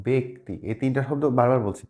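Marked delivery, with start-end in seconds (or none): 0.1-0.5 "ব্যক্তি" as bek-ti, closed e; correct be vowel. Shown as a demonstration. Teacher repeats the right form, "ব্যক্তি" as bek-ti. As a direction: say "ব্যক্তি" with be, not bæ. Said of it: "এটা হবে".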